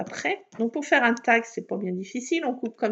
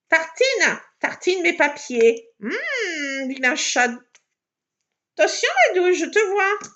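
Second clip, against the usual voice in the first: louder, higher scolding of the cat; 6 semitones higher, 5 dB louder than usual. Real, not acted. Crafter scolding her cat Tartine on the papers, loud and high. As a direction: shoo the naughty cat off the papers.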